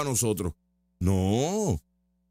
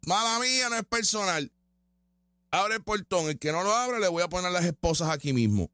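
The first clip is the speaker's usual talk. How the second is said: mock tough cop. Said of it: "viene papi".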